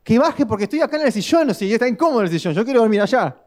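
high, aggrieved grumble; whiny complaint. Retold or imitated. Husband praying on the couch, in a high whiny grumble. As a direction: complain about the couch like a sulking child. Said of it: "así era mi oración".

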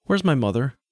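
put-on high-pitched child's question; young boy wanting an answer. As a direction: ask as a boy looking for his mother. Boy demands his missing mother.

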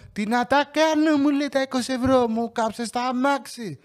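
high, slow mock mother whining; shrill nagging mother. Mother on the phone whining at her son about the burnt car. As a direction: whine it like a fed-up mother.

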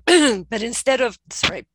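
throat catching mid-sentence; choking on a drink. Real, not acted. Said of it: "a bit of a choking moment going on here".

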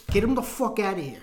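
firm pretend mob-boss order, not yet shouted; mildly hammed-up gangster command; mock mobster order. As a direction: play a mobster giving the order. Mobster act, first milder take.

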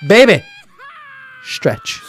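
put-on loud, high call of baby, stretch; mock command. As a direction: call it out to her like a playful order. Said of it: "All I'm gonna tell her is this".

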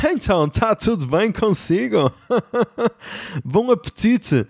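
high, slow, smooth radio-host voice; mock silky waiter voice. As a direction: purr it like a cheesy radio host. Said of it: "ele tava constantemente com aquela voz".

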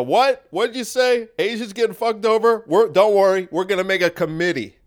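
high, fake startled concern; feigned concern. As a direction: play shocked then dismissive. Elites voiced, feigned concern.

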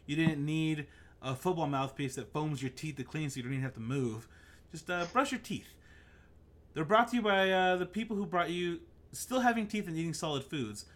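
lightly hammed sponsor-spot delivery; mock ad read. Podcast host reading a joke ad for brushing teeth, mock ad read. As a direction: read it like a tongue-in-cheek sponsor message.

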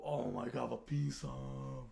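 a very slow, embarrassed "vad pinsamt"; embarrassed drawl. Retold or imitated. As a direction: stretch it out in mortification. Retold embarrassment.

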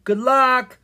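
high, loud farewell call. A narrator's reading. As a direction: call it after them as the door closes. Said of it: "Miranda called".

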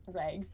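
rags said the way her accent says it. Shown as a demonstration. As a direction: let the accent color rags. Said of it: "that is gonna be the accent".

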